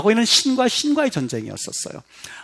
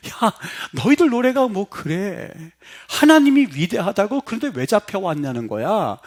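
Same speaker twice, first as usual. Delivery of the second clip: mocking jeer; 2 semitones higher than usual. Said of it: "깔깔깔대는 장면".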